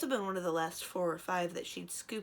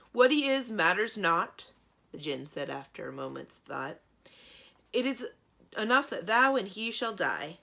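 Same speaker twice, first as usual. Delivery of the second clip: booming djinn threat; 3 semitones higher, 8 dB louder than usual. A narrator's reading. Djinn threatens Cimmerian and Thranduil, booming. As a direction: proclaim their doom from above.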